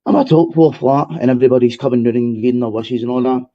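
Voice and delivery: winded after the stairs; out of breath. Real, not acted. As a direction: speak between quick breaths. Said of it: "I'm out of breath".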